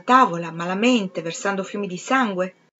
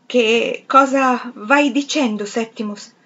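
slow, louder, higher frightened plea; terrified question; 4 semitones higher, 5 dB louder, slower than usual. Acted. Wife frightened by husband talking to himself, terrified. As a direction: ask him in fear, drawn out. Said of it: "fuori di sé dal terrore".

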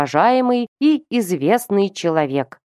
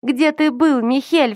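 hysterical reproach; 7 semitones higher than usual. A narrator's reading. Sister screaming at her brother, much higher hysterical cry. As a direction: hurl the question in hysterics. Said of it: "взиравшая на эту истерику".

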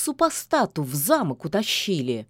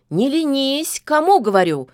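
louder brisk call from the witch; brisk shout; 6 semitones higher, 5 dB louder than usual. A narrator's reading. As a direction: rouse the lazy cat with a shout. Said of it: "бодро крикнула яга". (бодрый окрик яги)

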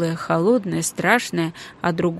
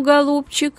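higher, warm proud praise; 8 semitones higher, 4 dB louder than usual. A narrator's reading. Father praising his brave daughter, proud. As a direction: beam with pride. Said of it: "с искренним восхищением".

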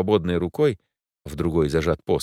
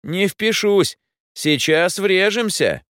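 much higher, slowing alarmed shout; panicked yell; 12 semitones higher, 5 dB louder, slower than usual. A narrator's reading. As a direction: scream before the crash. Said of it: "заорал Гермес". (паническим криком)

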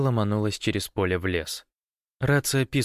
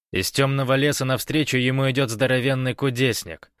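grand recitation, higher and louder; declaiming; 5 semitones higher, 4 dB louder than usual. A narrator's reading. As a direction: recite it like a poem. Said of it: "продекламировал Гош".

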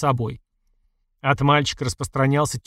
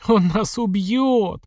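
slow, much higher panicked cry; shouting; 7 semitones higher, much slower than usual. A narrator's reading. Mother crying out in panic, slow and high. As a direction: drag out the fear, pitched up. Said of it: "продолжала кричать Света".

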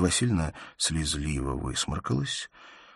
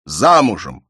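furious shout; 12 semitones higher, 11 dB louder than usual. A narrator's reading. Father shouts at his insolent daughter furiously. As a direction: hurl the insult at her. Father raging about marriage.

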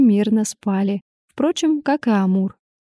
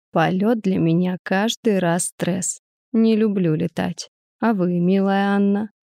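put-on weary old man. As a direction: sigh it out like a nervous old flyer. Old man sighs, complains.

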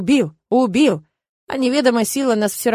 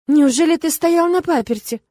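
high, exaggerated astonishment; mock-shocked gasp; 7 semitones higher, 4 dB louder than usual. A narrator's reading. Heroine teasing Aik about begging, high and shocked. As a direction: gasp the question, pitched high. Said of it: "ахнула я, прикрыв рот рукой".

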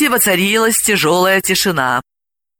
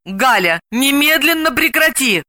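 mildly angry, raised pitch; cross; 8 semitones higher than usual. A narrator's reading. Delila tells her friend to stop, mildly angry. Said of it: "рассердилась Далила".

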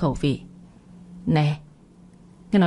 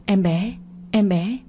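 panicked cry; slower than usual. A narrator's reading. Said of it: "mà la lên".

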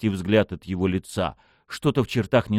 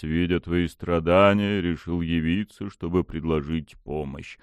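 low, slow, lordly deity; dark god voice; 4 semitones lower than usual. Acted. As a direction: speak down to a mortal.

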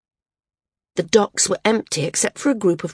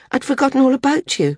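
high, loud and eager; excited recognition; 8 semitones higher, 3 dB louder, faster than usual. Acted. Maris places the young man from Air Home, high and excited. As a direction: rush out the realization, pitched up.

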